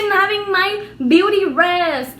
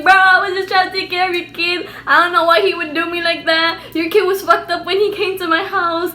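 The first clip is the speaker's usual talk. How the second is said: loud, slightly raised complaint, acted out; mock outburst, pushed louder; retold screaming; 3 semitones higher, 4 dB louder than usual. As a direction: re-enact yelling in protest at his mom. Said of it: "I start screaming at her".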